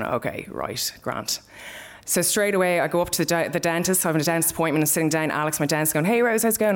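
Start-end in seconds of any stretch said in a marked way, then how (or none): 0.0-1.4 numb acceptance. Retold or imitated. Numbly accepting bad news, retold. 6.1-6.7 high, chirpy dentist hello; cheery greeting. Retold or imitated. Dentist greeting Rose at appointment, cheery high voice.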